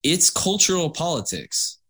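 dramatic emphasis on cultural; bad acting. Shown as a demonstration. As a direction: hit cultural harder, with weight. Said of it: "give that the emotional weight it needs".

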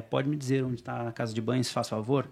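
put-on European Portuguese wording in a Brazilian accent; polite request, keeping the Brazilian accent; Portugal's idiom, plainly Brazilian in sound; Brazilian-accented Portugal phrasing. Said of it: "falava português de Portugal com sotaque brasileiro".

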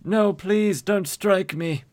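high-pitched, slowing plea, hammed up; mock pleading. Store owner begging the gangster, mock frightened plea. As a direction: beg in a put-on high voice.

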